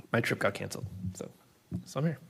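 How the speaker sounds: hoarse, strained voice; worn-out hoarse voice; losing voice. Real, not acted. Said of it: "I'm losing my voice here".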